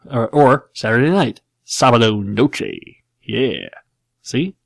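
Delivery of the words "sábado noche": slow, hammed-up gringo Spanish accent; George W. Bush Spanish. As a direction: stretch Sabado Noche like a Texan tourist. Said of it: "it's a terrible Spanish accent".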